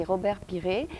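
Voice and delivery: "Robert Piré" said the French way, not American; French pronunciation. Real, not acted. Host correcting herself on the guest's name, French pronunciation. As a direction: pronounce "Robert Piré" with French sounds and silent final t. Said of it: "j'ai l'habitude de prononcer son nom en américain".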